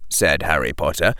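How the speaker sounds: plain reading voice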